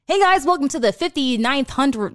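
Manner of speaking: Graham impression. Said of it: "I will do Graham first".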